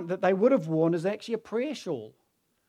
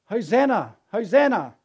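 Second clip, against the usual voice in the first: raised, high acclaiming cry; crowd shouts; 4 semitones higher, 6 dB louder than usual. Retold or imitated. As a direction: imitate a crowd calling out in praise. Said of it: "there were shouts of".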